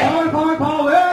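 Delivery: high call-out to the crowd; rallying shout. Shown as a demonstration. Speaker leading audience chant, shouting. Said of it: "Pag sigaw ko ng power".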